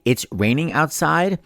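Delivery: put-on drawn-out French Canadian teacher accent, lightly done; Mister Couture impression. Algebra teacher constantly saying it to his class, mock French Canadian accent. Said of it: "had a very weird accent".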